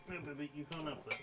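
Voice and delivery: soft scolding. Real, not acted. Scolding cat softly.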